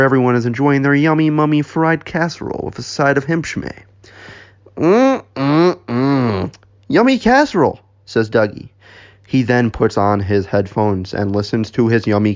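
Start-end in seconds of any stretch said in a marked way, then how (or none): 4.8-7.8 high-pitched mock savouring; relishing. Dougie enjoying his casserole at brunch, relishing. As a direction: hum with relish, then a high squeal of delight.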